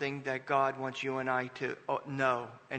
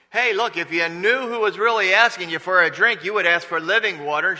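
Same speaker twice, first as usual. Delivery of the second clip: loud preached quote; 4 semitones higher, 11 dB louder than usual. Retold or imitated. Jesus voiced to the woman.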